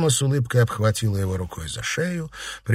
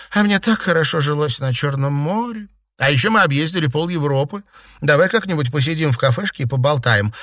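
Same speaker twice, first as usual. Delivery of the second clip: lightly voiced, higher-pitched chatter; chatty Seraphima; 5 semitones higher than usual. Girl telling cousin about her travels, chatty. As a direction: chat brightly, catching up.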